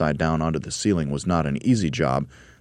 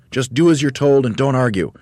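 raised, loud bossy orders; Mugglewump shouting; 8 semitones higher, 8 dB louder than usual. A narrator's reading. Monkey leader to arguing helpers, shouting. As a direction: lay down the law loudly. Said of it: "shouted Mugglewump".

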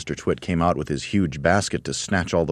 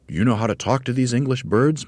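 higher, eager monkey voice; Mugglewump, higher; 7 semitones higher than usual. Acted. Mugglewump asking the roly-poly bird, eagerly higher. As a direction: ask with a monkey's urgency.

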